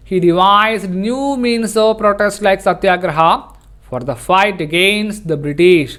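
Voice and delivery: slow, measured classroom reading; textbook read-aloud. Acted. Teacher reading the lesson on protest to students, slow read-aloud. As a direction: read the sentence out slowly, phrase by phrase.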